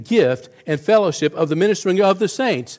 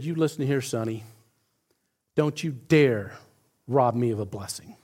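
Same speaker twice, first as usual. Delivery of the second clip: stern scolding; 6 semitones lower, 8 dB quieter than usual. Retold or imitated. Old lady scolds young pastor.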